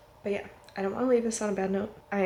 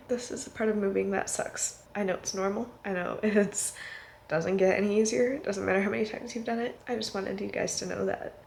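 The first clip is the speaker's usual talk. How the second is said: wearing a retainer; 3 dB quieter than usual. Real, not acted. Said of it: "I have my retainer in".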